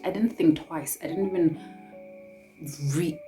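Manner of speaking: ordinary talk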